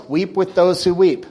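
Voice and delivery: loud, ringing call of the verse; ringing proclamation. Real, not acted. Preacher proclaims the verse to the church, loud. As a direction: proclaim it to the back row.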